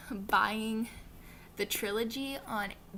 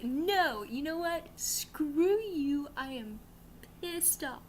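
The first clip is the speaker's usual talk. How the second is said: half-joking fake fury at the book, voice pushed higher; mock angry outburst; 5 semitones higher, much slower than usual. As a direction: act out mock outrage at the ending, then drop to a grumble. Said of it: "I am so angry".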